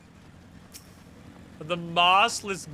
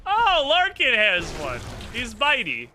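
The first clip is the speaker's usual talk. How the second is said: overwhelmed by cuteness; 9 semitones higher, 7 dB louder than usual. Real, not acted. Gushing over cute creature.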